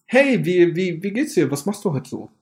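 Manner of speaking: nervous flirt between sips; while sipping a drink. Pretend. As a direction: slurp after each question. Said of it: "das funktioniert eher so".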